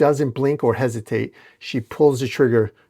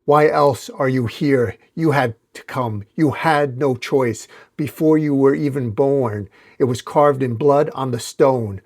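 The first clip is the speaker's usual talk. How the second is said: villain yelling. Acted. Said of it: "as Slay yells".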